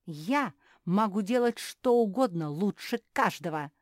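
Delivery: loud boastful shout. Acted. Beatrice shouting she can do anything best, loud. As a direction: yell it out in pride. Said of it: "закричала Беатриса".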